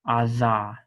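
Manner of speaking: "ada" with a TH as in "this"; demo of soft dalet. Shown as a demonstration. Teacher to students, showing the soft dalet. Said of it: "like our voiced T H".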